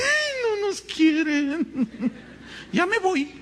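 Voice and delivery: high, slow sobbing whine mocking the flock; mock whining. Pastor mocking church members who complain they aren't loved. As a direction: whimper it like a sulking child. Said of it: "Y algunos de ustedes".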